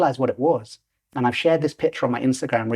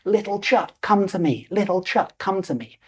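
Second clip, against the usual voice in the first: calling out; 6 semitones higher than usual. Retold or imitated. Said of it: "I call out".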